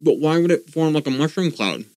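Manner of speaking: talking with a mouthful of food; chewing while speaking; mouth full. Real, not acted. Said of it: "sorry, I'm talking with my mouth full now".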